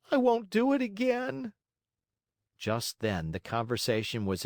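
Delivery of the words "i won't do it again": put-on high-pitched puppet-boy plea; tearful promise. A narrator's reading. Scolded marionette promises the glowworm, mildly tearful. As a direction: promise it in a high, acted cry. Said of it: "cried Pinocchio in tears".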